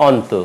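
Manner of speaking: অন্ত with open "aw", "awn-to"; common mispronunciation. Shown as a demonstration. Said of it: "এই শব্দটি উচ্চারণ করে".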